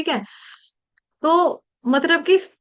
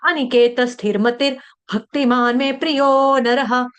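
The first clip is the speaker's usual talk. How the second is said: slow chanted Sanskrit shloka; verse recitation; slower than usual. Shown as a demonstration. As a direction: recite the verse in a measured intoning voice. Reads full shloka.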